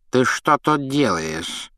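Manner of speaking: slow, suspicious squint of a question. Acted. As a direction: interrogate the boy. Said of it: "подозрительно сощурился Филч".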